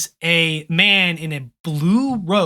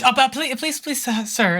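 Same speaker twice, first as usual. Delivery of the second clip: gentle princess; 7 semitones higher than usual. Acted. GM voices pleading princess.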